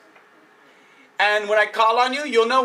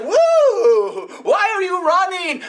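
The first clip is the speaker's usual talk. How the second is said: a second rabbit startled and curious; surprised rabbit calling out; 7 semitones higher than usual. Acted. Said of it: "The other rabbit said".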